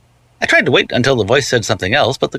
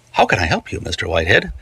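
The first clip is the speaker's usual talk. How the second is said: a lightly voiced smooth, oily caller, a bit lower and softer; 5 semitones lower, 3 dB quieter than usual. A slick maintenance man on the watch answers, lightly smooth and oily. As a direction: purr it like a slick rent collector, lightly. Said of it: "The voice was smooth and oily".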